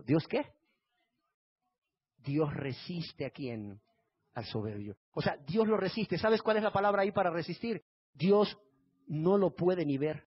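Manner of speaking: ordinary talk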